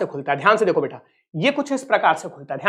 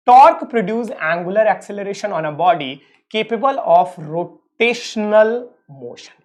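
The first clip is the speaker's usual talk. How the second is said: each word spaced out slowly for note taking; slow dictation; 2 semitones higher, much slower than usual. Acted. Teacher dictating a definition to his students, very slow and spaced. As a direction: read it out very slowly so they can write.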